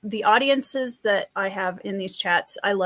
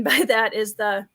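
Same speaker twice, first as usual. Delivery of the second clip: ordinary talk, nothing marked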